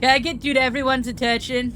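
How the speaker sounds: surfer dude voice. Acted. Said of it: "Why am I doing surfer voice?".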